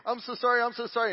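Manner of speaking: high-pitched, pleading repeated apology; mock-weeping, pushed up in pitch; acted tearful apology. Wife running out to her husband, retold tearful apology. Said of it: "she's weeping".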